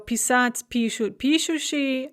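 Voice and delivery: писать stressed at the end, пишут and пишущий at the start; stress follows conjugated form. Shown as a demonstration. Teacher sums up with писать, пишут, пишущий, stress shifting forward. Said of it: "have the stress the same as it".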